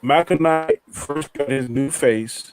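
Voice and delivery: glitchy robotic connection; choppy robot-like audio. Real, not acted. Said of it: "you sound like a robot".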